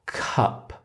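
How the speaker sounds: "cup": the k of wake moved onto up; linking sound isolated. Shown as a demonstration. Teacher isolating the linked sound, "cup" said by itself. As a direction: say the linked syllable "cup" alone. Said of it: "we usually connect them".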